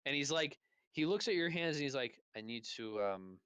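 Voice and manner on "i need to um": put-on halting French-accented English; hesitant, lightly French-accented speaker; slight French accent. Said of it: "a slight French accent".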